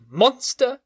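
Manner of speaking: put-on very high, shrill child's voice hurling insults; a frantic little boy screaming for release; terrified child. A narrator's reading. Boy fighting the monster's grip, screaming insults in high panic. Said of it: "he cried".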